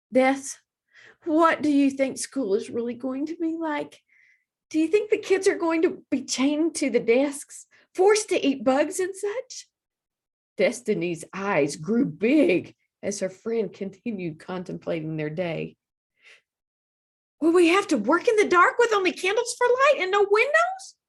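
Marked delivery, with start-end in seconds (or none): 0.1-9.7 put-on higher child voice, growing worry; girl asking her friend about school; anxious little girl. A narrator's reading. Child asks worried questions. 17.4-21.0 much higher, louder rising fear; girl imagining a dark school; panicky little girl. A narrator's reading. Child's fears escalate.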